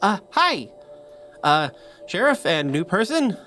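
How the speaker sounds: high, fast, fumbling words; nervous coroner. Acted. Coroner surprised by late visitors to the morgue, high jittery rush. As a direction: rush it out like a jittery doctor caught off guard.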